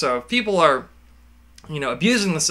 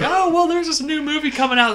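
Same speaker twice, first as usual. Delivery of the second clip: raised, dopey voice; high drugged voice; 12 semitones higher than usual. Retold or imitated. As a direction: chirp it out, half drugged.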